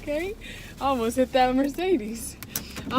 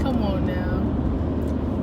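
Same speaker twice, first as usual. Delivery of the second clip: drawn out come on now; 5 semitones lower, much slower than usual. Acted. Repeats the drawn-out phrase.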